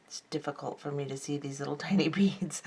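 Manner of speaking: soft whisper with a small laugh; whispered aside. Real, not acted. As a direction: mutter it to yourself, half laughing. Struggling to see tiny beads.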